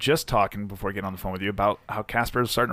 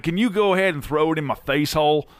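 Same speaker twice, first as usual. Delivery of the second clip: hick caller voice; 3 semitones higher than usual. Acted. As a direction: play a hungry redneck caller. Prank caller to butcher.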